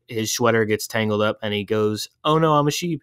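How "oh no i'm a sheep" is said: sheep voice. Retold or imitated. Sheep voiced in retold movie.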